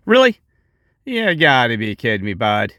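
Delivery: incredulous. Real, not acted. To viewers, about the guy charging money: incredulous outburst. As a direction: scoff in mock disbelief. Scoffing at alien-info seller.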